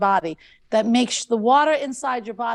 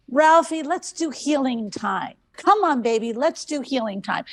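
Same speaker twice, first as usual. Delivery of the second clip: coaxing the dog. Retold or imitated. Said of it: "And I get him all excited".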